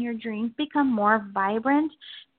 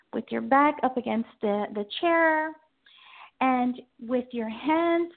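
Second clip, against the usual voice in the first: guided meditation. Acted. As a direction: ease them into calm.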